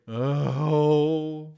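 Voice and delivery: a moved little gasp of an oh; touched oh. Retold or imitated. When the dog sits on his shoe, a choked-up surprised oh.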